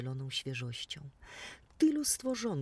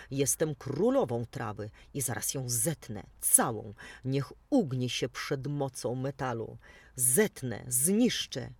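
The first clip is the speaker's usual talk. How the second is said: low, loud, boastful threat; boastful mower queen; 3 semitones lower, 5 dB louder than usual. Acted. The mower threatening to cut the whole meadow, low and booming. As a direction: boom it out like a tyrant queen.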